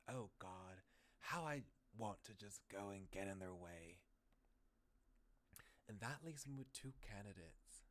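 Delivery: acted reading of a game hero's thoughts; visual-novel monologue. Game protagonist deciding whom to visit, theatrical musing. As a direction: muse it through theatrically.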